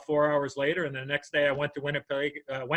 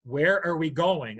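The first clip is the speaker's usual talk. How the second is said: suspicious wife; slower than usual. Retold or imitated. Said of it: "then she says".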